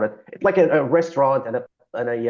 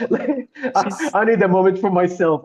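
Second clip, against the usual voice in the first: mock sobbing exit line, laughing; 5 semitones higher than usual. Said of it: "sobbing and went".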